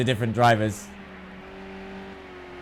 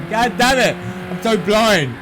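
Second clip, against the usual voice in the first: frustrated; 4 semitones higher, 3 dB louder, slower than usual. Real, not acted. Streamer annoyed at missing timer.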